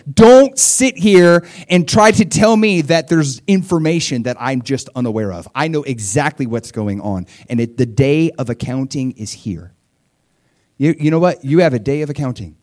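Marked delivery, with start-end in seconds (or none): 0.1-9.7 mild mock divine rebuke; stern God. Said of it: "He's like".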